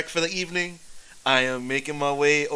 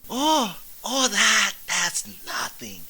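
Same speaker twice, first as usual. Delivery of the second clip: put-on drunk boast; 2 semitones higher than usual. Drunk hero boasting about a bandit's head. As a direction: brag like a happy drunk.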